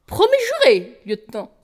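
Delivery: serment lancé très haut; voix aiguë. Acted. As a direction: jurer d'une voix suraiguë. Sudden high oath. (promesse haut perchée)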